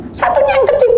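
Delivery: high squeaky bird mimicry; tiruan burung kecil. Voicing the small bird. (suara kecil melengking tinggi)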